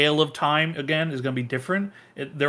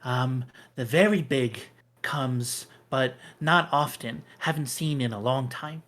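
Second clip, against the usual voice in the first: squirrel. Acted. GM voices squirrel at length.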